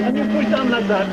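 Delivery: put-on French accent. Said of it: "I love that French accent".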